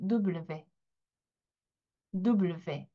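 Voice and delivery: W pronounced double-vé, teacher demo; W en prononciation française; French W. Shown as a demonstration. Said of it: "같이 한번 해볼게요".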